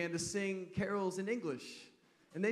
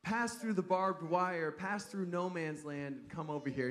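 put-on heavy German accent. German soldier calling the British across no man's land, German accent. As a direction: call across the lines in a mock German accent. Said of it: "in a heavy German accent".

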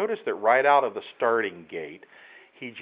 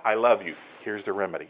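tender turn; 2 semitones lower than usual. Pretend. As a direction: drop down and comfort them. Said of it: "and then says".

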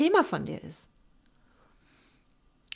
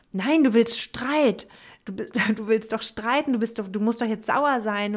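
mock inner scolding; 4 dB louder than usual. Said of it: "habe ich mich wieder zwingen müssen".

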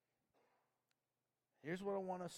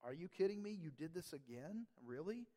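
harsh rebuke; 2 semitones higher than usual. Retold or imitated. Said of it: "God gives a harsh correction".

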